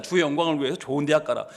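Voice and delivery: "주의 영광을 위해서" rattled off low and soft; perfunctory pious cover. Acted. Parents tucking in a pious preface, quick, low and perfunctory. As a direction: hurry through "주의 영광을 위해서" as a token preface. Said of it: "앞에 하나 끼워 넣는".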